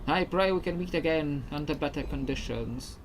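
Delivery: a weakening spirit saying goodbye; ghost voice. Acted. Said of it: "This is my ghost voice".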